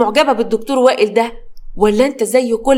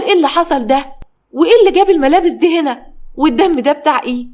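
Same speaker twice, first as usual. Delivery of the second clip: shocked father; 4 semitones higher, faster than usual. Acted. Father sees his children's bloody clothes, shocked. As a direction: demand answers in shock.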